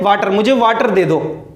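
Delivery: "वाटर" said VAA-ter with an open "aa"; mispronounced water. Shown as a demonstration. Teacher imitating people asking for water, "वाटर" mispronounced as VAA-ter. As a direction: give both "वाटर" a long "aa", as VAA-ter. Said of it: "क्या बोलते हैं?".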